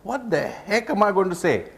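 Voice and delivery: high-pitched, mock-flustered novice speaker; mock panic, rising into a rapid high protest; worried novice speaker. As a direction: act out a speaker stuck for words, pitch climbing high. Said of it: "So you're wondering".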